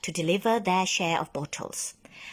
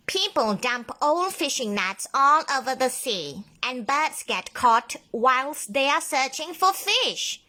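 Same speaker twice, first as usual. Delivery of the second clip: sighing; 6 semitones higher, 3 dB louder than usual. A narrator's reading. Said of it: "sighed Ollie".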